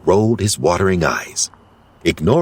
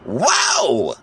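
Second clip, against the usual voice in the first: shivering; 5 semitones higher than usual. Acted. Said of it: "he said with a shiver".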